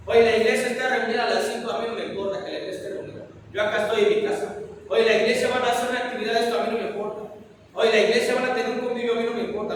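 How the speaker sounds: fast, offhand shrug of a voice; mock indifferent member brushing off church events; careless churchgoer. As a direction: rattle it off like someone who doesn't care.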